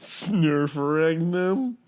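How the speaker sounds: slowly said reversed word; drawn-out backwards gibberish; backwards speech. Shown as a demonstration. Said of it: "Say that".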